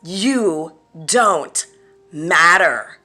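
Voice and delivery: loud, high-pitched berating tirade; furious acted shout, punching key words; screaming in their face. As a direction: hurl each insult at full force. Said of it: "screaming into their face".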